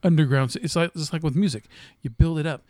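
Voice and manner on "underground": movie trailer voice. Shown as a demonstration. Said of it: "Why are you getting louder?".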